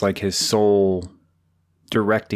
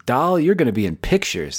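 1950s studio executive; 5 semitones higher than usual. Acted. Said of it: "nineteen fifties executive".

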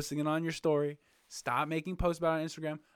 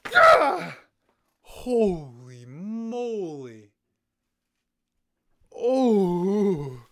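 real startled shriek; freaked out; 4 semitones higher, 10 dB louder, much slower than usual. Real, not acted. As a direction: shriek of disgust at a spider. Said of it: "that gave me the heebie-jeebies".

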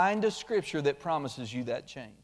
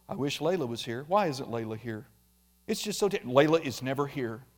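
lower, softer self-pitying sigh at the cat dish; mock moping; 5 semitones lower, 4 dB quieter, faster than usual. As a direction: moan that the cat never comes. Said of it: "Nobody stands at the cat dish going".

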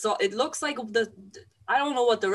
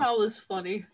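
deadpan, barely any tune on it; monotone; 2 semitones lower than usual. Shown as a demonstration. Laughing it off to the other host in a deadpan monotone. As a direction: say it flat as if it wasn't funny at all. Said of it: "I say in a monotone voice".

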